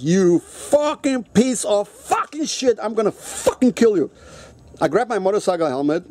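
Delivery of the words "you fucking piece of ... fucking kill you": slow, seething threat; lost it. Retold or imitated. Furious patient threatens the doctor who overprescribed, slow seething rage. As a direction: spit each word out with rage. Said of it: "Man, I fucking lost it".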